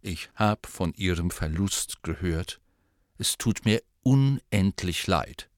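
low, solemn condolence; deep and grave, unhurried. Acted. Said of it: "mit tiefer, feierlicher Stimme".

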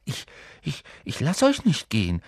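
stammering defiance, gaining a little voice; hesitant stammer. Acted. Neville blocking his friends' way, stammering bravely. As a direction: stumble into it, then get firmer.

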